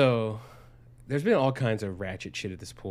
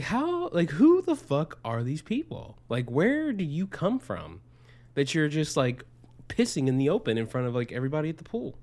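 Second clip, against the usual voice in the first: incredulous outrage; 5 semitones higher than usual. Retold or imitated. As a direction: act stunned and appalled. Incredulous retold reaction.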